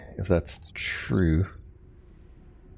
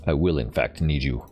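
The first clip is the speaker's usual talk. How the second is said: lightly acted corporate executive; Ross Peterson. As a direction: read it as a measured in-game character, lightly played. Reads corporate character's dialogue aloud.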